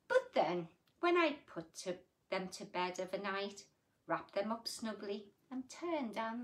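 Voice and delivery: put-on gentle read-aloud for children; sing-song storybook reading; story reading. A narrator's reading. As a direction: read it like a bedtime picture book. Reads rhyming picture book aloud.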